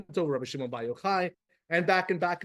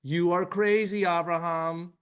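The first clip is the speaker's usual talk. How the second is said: mock scoffers; 4 semitones higher, 4 dB louder than usual. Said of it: "How much heat did he get".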